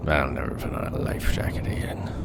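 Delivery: whisper. Acted. Haunted sailor's vow.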